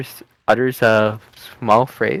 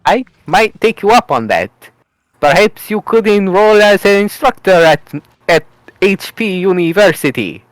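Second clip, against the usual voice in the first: mock Mario voice; 5 semitones higher than usual.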